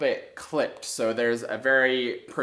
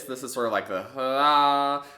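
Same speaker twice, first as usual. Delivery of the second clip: unclear breathy start. Shown as a demonstration. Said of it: "We don't want a beginning to the note to be something like this".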